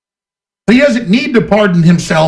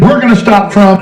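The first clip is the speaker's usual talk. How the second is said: louder repeat of "We're gonna stop Trump" with "We're" hit hard; louder mocking quote; 3 semitones higher, 4 dB louder than usual. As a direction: bark the quote back mockingly.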